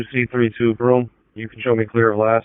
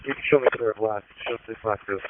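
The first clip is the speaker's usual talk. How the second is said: police radio; 11 semitones lower, much faster than usual. Real, not acted. Dispatcher clearing unit over radio.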